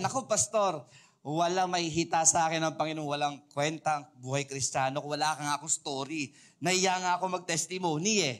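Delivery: ordinary talk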